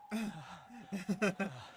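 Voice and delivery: menacing laugh. Acted. Character laughs after scene.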